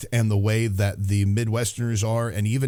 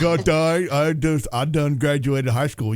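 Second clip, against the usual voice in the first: mock hick; 3 semitones higher than usual. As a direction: play up a proud bumpkin, lightly. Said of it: "I'm like".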